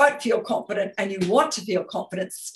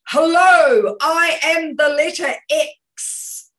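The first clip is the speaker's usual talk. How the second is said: high, booming, stretched-out hello; big energetic shout; 8 semitones higher, 8 dB louder, slower than usual. Shown as a demonstration. Coach showing a webinar audience how to project, loud shout. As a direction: announce yourself like a giant letter X. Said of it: "all I'm going to say ... is".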